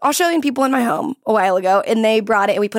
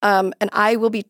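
amateur attempt at an Australian accent. Shown as a demonstration. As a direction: announce it in a shaky-confidence mock Australian accent. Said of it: "Here is my Australian accent".

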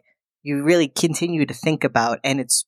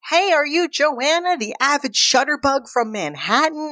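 much higher, bright excited hello; bubbly greeting; 11 semitones higher than usual. Retold or imitated. New neighbour greeting Joanna, high and excited. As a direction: greet her like a new best friend. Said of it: "Bobby comes over and is like".

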